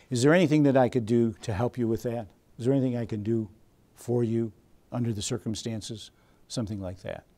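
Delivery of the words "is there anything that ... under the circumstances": helpful, gentle. Shown as a demonstration. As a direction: gently offer to help. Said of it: "We want to say".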